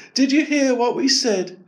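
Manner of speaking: high, bright-eyed animal voice; chirpy gazelle speaking to the boy. Acted. Gazelle voice in read story.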